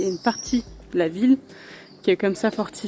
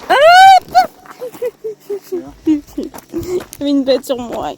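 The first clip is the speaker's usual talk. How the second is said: startled; 9 semitones higher, 12 dB louder than usual. Real, not acted. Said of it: "avant de me faire attaquer".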